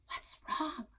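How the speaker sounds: soft unvoiced whisper. A narrator's reading. Sister wakes to crying sister, whispering. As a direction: breathe it so no one wakes. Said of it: "I whispered".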